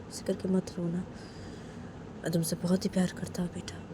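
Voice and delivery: lightly voiced coaxing father; tender father. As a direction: coax the crying daughter gently. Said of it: "Sunaina के पापा सुनैना को बोलते कि".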